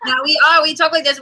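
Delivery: laughing. Real, not acted. Insisting through laughter.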